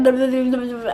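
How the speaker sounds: mock tongue-tied nonsense syllables; garbled babble. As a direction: imitate words tumbling out as gibberish. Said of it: "My words are not coming out as words".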